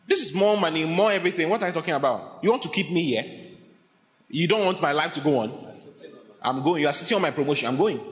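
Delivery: worked-up, insistent objections; indignant protest. Acted. Man told to stay protesting to his pastor, indignant. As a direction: argue back at the pastor, affronted.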